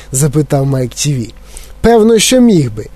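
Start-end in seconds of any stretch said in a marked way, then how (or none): 1.8-2.9 higher, disgusted eccentric chocolatier; eccentric Wonka. Acted. Wonka scolding Mike about oatmeal, disgusted. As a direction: lecture the boy with distaste.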